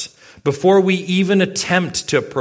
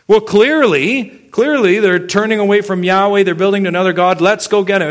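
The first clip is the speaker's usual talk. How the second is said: louder, higher, certain outrage; indignant accusation; 5 semitones higher, 4 dB louder than usual. Retold or imitated. Israelites accusing the eastern tribes, indignant and louder. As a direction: condemn them as turning from Yahweh.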